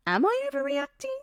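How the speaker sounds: small, high, unsure question; doubting herself. Retold or imitated. Woman doubting herself after being called emotional, small and unsure. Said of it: "And I would actually be like".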